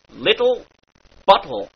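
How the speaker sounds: glottal stop on the T of Little bottle. Shown as a demonstration. Teacher demonstrates the glottal T. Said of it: "put a glottal stop".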